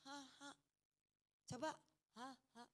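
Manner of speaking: soft voiceless "ha, ha"; two short huffs of breath; demonstrated breath puffs. Shown as a demonstration. Preacher getting congregation to try it, soft breath puffs.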